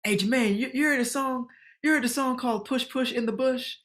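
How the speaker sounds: a hint of Leslie, teasing question; Leslie asking. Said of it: "Leslie's asking me on set".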